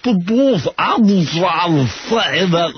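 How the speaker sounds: impersonating Gary. Retold or imitated. Host mimics Gary protesting to his boss, high and pleading. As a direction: whine out the excuse like Gary. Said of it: "Is that impersonation as far off".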